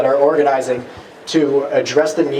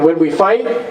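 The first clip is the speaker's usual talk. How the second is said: raised voice, building to a cry; rally shout; 4 semitones higher than usual. Real, not acted. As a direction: shout it to the crowd. Rally chant climax.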